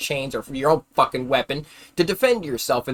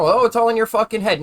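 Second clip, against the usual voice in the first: mocking mom; 6 semitones higher, 5 dB louder than usual. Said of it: "Same way as my mom".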